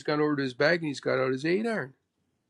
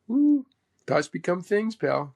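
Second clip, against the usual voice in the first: lightly imitated catchphrase after a high ooh; 3 semitones higher, 3 dB louder, slower than usual. Player quotes mentor's motto, lightly imitated with high ooh. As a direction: drop the motto as the quirky mentor. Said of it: "You have to ask Mo".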